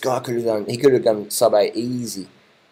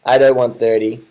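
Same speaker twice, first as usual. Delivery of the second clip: emphatic prediction; 7 dB louder than usual. Real, not acted. Repeating his prediction emphatically.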